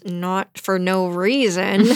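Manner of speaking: slow, restrained mock irritation; through gritted teeth. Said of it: "Cyrano grits his teeth and says".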